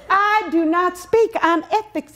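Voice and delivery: slow, deliberate I do not speak on ethics; firm refusal. Retold or imitated. Refusing the vice principal, slow and deliberate. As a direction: spell out the refusal word by word. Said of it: "I said".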